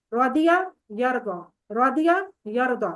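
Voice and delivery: رادیہ یردا spelled out slowly with a long a at the end; slow teaching demo. Shown as a demonstration. Teacher modelling the verb pair for students, slow and clear. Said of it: "اب یہ دیکھیں یردا کی آواز".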